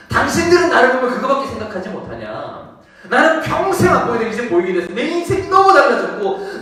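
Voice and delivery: high, loud plea of the healed man; acted outcry, swelling to full force; impassioned preaching. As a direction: protest passionately from the pulpit.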